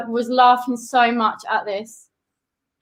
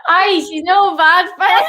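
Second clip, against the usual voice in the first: slow put-on Scottish accent; playful Scottish impression; 3 semitones higher, 4 dB louder, slower than usual. Shown as a demonstration. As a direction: say it in broad Scots, taking your time. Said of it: "We're doing a Scottish".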